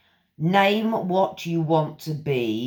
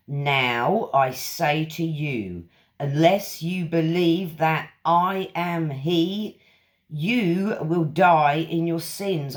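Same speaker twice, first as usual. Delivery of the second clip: solemn scripture reading. Acted. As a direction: read it like verses from the pulpit. Reads scripture aloud.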